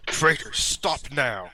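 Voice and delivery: drawn-out warbot command, not really loud; a lightly voiced booming order; mock booming shout. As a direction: boom it out slowly at ordinary volume. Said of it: "loud booming voice shout".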